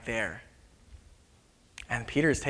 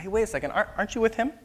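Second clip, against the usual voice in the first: put-on high, questioning little girl voice; high-pitched child's questioning; 8 semitones higher, much faster than usual. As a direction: pipe up like a curious girl. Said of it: "there's a little girl at the temple gates that says".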